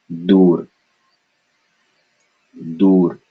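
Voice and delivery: Dur with a firm unaspirated d; no air. Shown as a demonstration. Teacher reminding students, Dur with no air. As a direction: say Dur as one syllable, no puff. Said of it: "Remember, no air".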